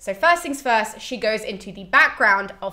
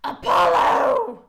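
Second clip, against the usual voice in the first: high, long-drawn cry of the name; mock yell; 11 semitones higher, 4 dB louder, much slower than usual. Cassandra speaking for the first time, mock yell. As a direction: wail it out suddenly, stretched and high. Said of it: "she just yells".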